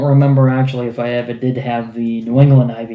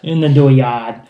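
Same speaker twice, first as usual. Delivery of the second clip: put-on Maine accent. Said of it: "bad Maine and New England and Boston accents".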